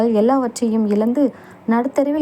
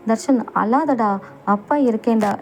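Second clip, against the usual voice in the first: consoling. Acted. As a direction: gently hush a crying son, drawing it out. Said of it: "என்று தேற்றினார்".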